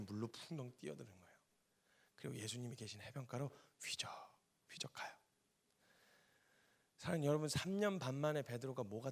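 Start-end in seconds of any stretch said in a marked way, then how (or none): 3.8-5.1 whispered narration; softly whispered wading scene. Acted. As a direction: hush it to a whisper. Quiet storytelling moment.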